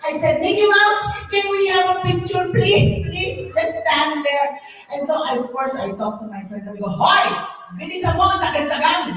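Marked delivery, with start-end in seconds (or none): 0.4-4.6 high, eager plea; eager pleading. Acted. Fan asks Mickey Mouse for a picture, eager pleading. 6.9-9.2 raised, rushed call to hurry up; impatient nagging. Acted. Speaker hurries friend with the camera, impatient nagging.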